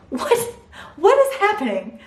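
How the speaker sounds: high, laughing, incredulous; laughing disbelief. Real, not acted. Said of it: "laughing disbelief".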